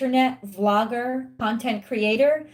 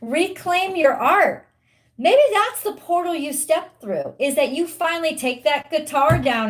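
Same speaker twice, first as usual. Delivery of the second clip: rousing urge; 6 semitones higher than usual. Real, not acted. Urging the viewer.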